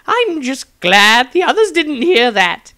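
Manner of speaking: relieved but rattled wizard; Maestro's fretful character voice; nervous wizard. Acted. Maestro mutters after shudder.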